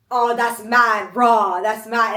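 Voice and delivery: British accent, imitated. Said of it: "they're very much like".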